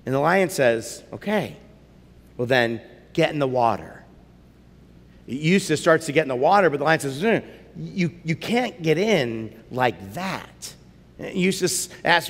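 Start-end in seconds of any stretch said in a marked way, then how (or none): 1.1-4.0 lion. Acted. Lion speaks. 7.2-10.8 lion. Acted. Lion speaks.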